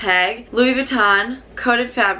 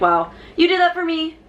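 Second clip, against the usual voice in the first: higher, excited gasp of thanks; delighted; 6 semitones higher than usual. Retold or imitated. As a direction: act thrilled and touched. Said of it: "I was like".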